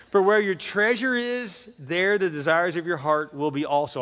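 reads the verse slowly through a laugh; slow, amused scripture read. Real, not acted. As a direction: savour the line, chuckling as you go. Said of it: "I love that line".

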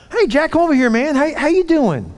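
high-pitched, hearty coach hello; hearty greeting. Retold or imitated. Coach calls Jack over at practice, hearty greeting. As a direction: call the player over brightly, pitched well up.

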